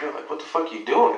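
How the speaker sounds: imitating his own shocked outburst in the school lot; retold outburst. Father recalling shouting at the mother as she reverses. Car door hits him, retold.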